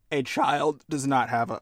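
burping mid-sentence; a burp slips out. Real, not acted. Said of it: "I burped there".

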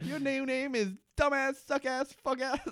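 put-on high, whiny childish name-calling; mock bratty kid. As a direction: taunt like an angry little boy. Bratty kid names his brother.

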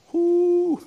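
high loud whoop of amazement; a big impressed whoo at the pay. Real, not acted. Preacher marvels at big pay, whooping high.

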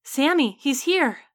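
high, loud, slowed joyful shout; excited cry. Acted. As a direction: cry out that the son is here. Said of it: "her father called".

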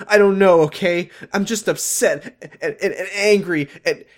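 high, exasperated mock-teen whine; upset teenager. Ashley snapping back when George asks what's upsetting her, high mock-teen angst. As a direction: play an overwrought teenager piling up feelings. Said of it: "have teenagers talk".

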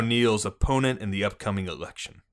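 put-on police chief briefing in a Boston accent; gruff-cop Bostonian, dropped R's. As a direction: lay out the case in Boston cop talk. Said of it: "is that a Bostonian accent there?".

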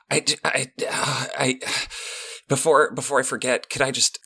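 false starts from a starstruck fan; anxious. Acted. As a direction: fumble shyly towards a request. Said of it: "anxiously from his chair and says".

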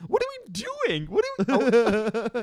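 put-on very high, slow drunken slur; drunk friend impression. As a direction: ham up a sloppy drunk. Imitating drunk Kevin.

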